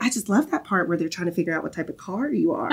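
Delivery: put-on thick Southern accent, laughing through it. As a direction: imitate a Southern mom while giggling. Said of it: "a very thick Southern accent 'cause she has one".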